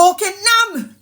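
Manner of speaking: mock shocked mum; shocked exclamation. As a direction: gasp it out in alarm.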